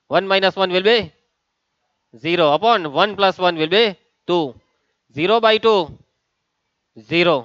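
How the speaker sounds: simple English with rising-falling teacherly questions; walk the class through it in easy English; easy classroom English. Shown as a demonstration. Teacher switches to English to work the sum for students, easy classroom English. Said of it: "આટલું easy તો ઇંગ્લિશમાં બોલ્યો".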